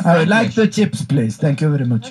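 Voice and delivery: stereotype Frenchman ordering; French accent. Pretend.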